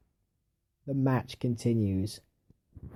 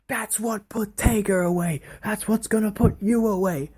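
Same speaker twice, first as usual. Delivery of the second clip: higher, put-on Heyman gloat; Heyman impression; 9 semitones higher than usual. Manager taunting the fallen rival, higher mock gloat. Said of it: "Heyman's on the outside".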